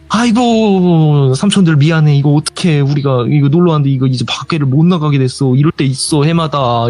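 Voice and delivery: a hint of a fretting village grandma. Grandma apologizing to the stranded young men, lightly voiced. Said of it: "이러는 거예요".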